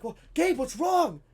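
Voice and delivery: high, loud teacher's question; high put-on voice, loudly asking. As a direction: answer like a startled teacher. Teacher answers the upset boy.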